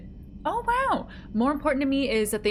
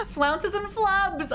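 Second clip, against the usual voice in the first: slow, high, savoring Flounces and flubs; delighted; 8 semitones higher, much slower than usual. Real, not acted. Streamer savoring a viewer's pun, slow and high. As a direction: draw out the phrase with delight.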